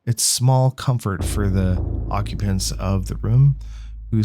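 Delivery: measured read-aloud of game text; game narration. A narrator's reading. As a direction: read it out like a storyteller.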